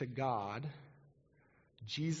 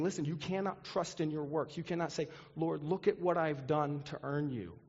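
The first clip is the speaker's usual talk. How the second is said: emphatic warning; 4 semitones higher than usual. Acted. Voicing Jesus warning his listeners.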